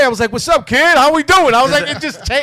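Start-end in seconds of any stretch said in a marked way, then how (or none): 0.3-1.5 high, loud slangy Black American inflection; imitating his own slip into Black American inflection; changed inflection. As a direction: switch into a hearty, higher Black American greeting. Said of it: "my inflection changed".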